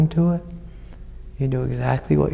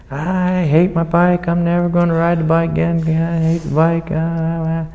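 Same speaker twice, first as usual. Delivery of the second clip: put-on upset little boy; 3 semitones higher than usual. Teacher voicing a boy who fell off his bike, a mild sulky child. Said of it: "And he's saying".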